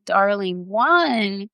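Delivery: slow, loving coo, acted; tender relief. Rescuer pulling Jo close out of the well, tender relief. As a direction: draw it out tenderly, like greeting a found child. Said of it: "you just say".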